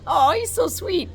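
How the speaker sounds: high, loud gushing; mock swooning inner voice; gushing thought. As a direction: coo it, way up high. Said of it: "And I'm thinking".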